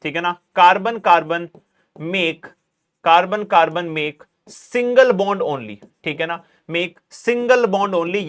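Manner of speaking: very slow dictation, each phrase repeated with pauses. Shown as a demonstration. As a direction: spell it out slowly for students to write. Teacher dictates definition. (धीमे-धीमे लिखवाना, हर टुकड़ा दोहराकर)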